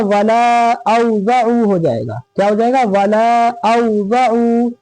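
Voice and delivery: वाला औज़अू with the final aa of वाला wrongly held long; wrongly stretched vowel. Shown as a demonstration. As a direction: slowly drag out वाला before औज़अू. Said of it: "ठीक, ये गलत है".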